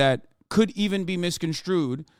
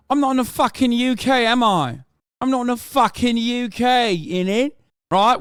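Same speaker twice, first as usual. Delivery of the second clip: higher, louder, exasperated retort; indignant outburst; 7 semitones higher, 3 dB louder than usual. Real, not acted. Streamer snapping back at a viewer who said he's in the UK, loud and indignant. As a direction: push back hard on the correction.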